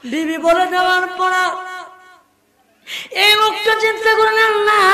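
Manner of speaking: half-sung preaching with long drawn-out phrase endings; intoned religious narration; melodic sermon storytelling. A narrator's reading. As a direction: chant the story to a congregation, stretching key words.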